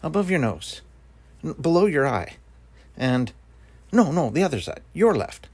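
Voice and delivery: lightly voiced fussy guesser; silly riddle banter. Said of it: "along the lines of".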